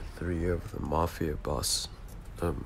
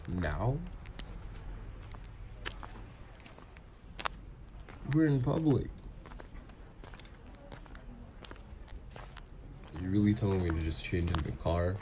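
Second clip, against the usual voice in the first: rising, disbelieving questions; incredulous objection; 4 semitones higher than usual. Acted. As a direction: balk at an embarrassing request. Balks at changing in public.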